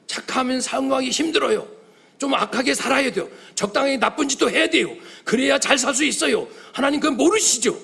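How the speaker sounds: crying out to God. Acted. Young man crying out to God in frustration. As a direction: plead up to God, half laughing. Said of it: "그 부르짖는 거예요".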